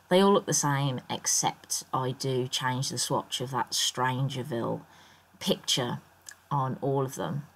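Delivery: croaky morning voice; rough, just-woke-up voice. Real, not acted. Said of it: "I don't know why my voice is so croaky".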